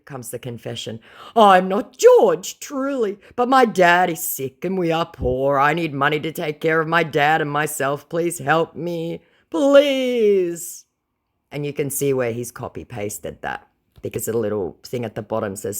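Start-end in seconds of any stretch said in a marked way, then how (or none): 1.4-10.8 high, slow whiny pleading voice; begging scammer. Retold or imitated. Scammer begging her for money in a high whiny voice.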